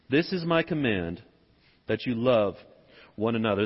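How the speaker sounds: low, measured Bible reading; scripture reading. Acted.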